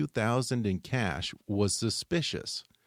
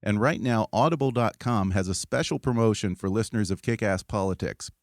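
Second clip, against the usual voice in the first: upbeat, louder sponsor read; 4 dB louder than usual. Acted. Host reading a sponsor ad to podcast listeners, bright ad voice. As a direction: sell the audiobook offer to listeners.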